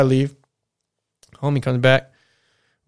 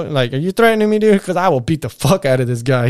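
retold threat; 5 semitones higher, 6 dB louder than usual. Confronting drunk brother-in-law.

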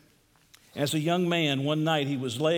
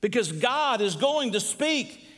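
emphatic preaching; 8 semitones higher than usual. Acted. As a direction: preach it with measured conviction. Preaching with force.

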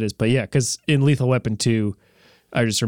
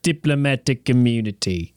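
South African accent. Shown as a demonstration. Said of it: "let's see".

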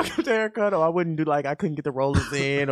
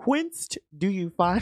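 slightly raised, drawn-out archaic affectation; mock-intelligent speech; 4 semitones higher, slower than usual. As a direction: draw it out as if sounding scholarly. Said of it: "I be trying to sound intelligent".

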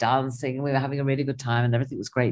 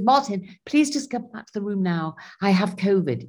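urgent plea; 6 semitones higher than usual. Retold or imitated. Retold plea to husband.

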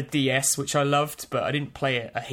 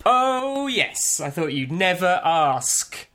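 hammy stage actor; 4 semitones higher, 5 dB louder, slower than usual. Acted. Mock flattered reply.

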